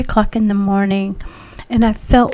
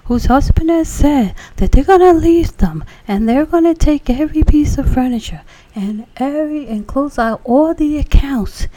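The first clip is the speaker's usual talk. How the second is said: preacher prophesying; 5 semitones higher, 4 dB louder than usual. Retold or imitated. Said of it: "He says".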